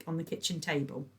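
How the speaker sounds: ordinary delivery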